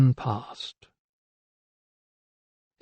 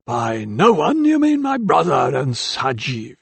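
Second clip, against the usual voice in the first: aggrieved; 2 semitones higher, slower than usual. A narrator's reading. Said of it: "aggrieved righteousness in his tone".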